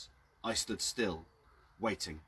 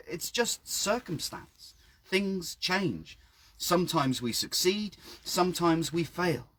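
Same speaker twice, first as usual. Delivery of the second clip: lighter dismissive voice; 7 semitones higher, slower than usual. A narrator's reading. Narrator reasons with old man.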